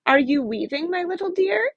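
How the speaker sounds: high, coaxing call through a window; sweet calling witch. Acted. Sly old witch calling sweetly. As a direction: Baba Yaga sweetly calls to her cat. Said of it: "she called through the window".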